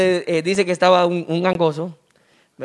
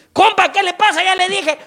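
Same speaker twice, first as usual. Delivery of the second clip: high, pushy buddy voice; tipsy overfriendly chatter; 9 semitones higher than usual. Acted. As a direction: bombard him with cheerful questions. Drunk keeps greeting the stranger. (borracho cariñoso, muy agudo)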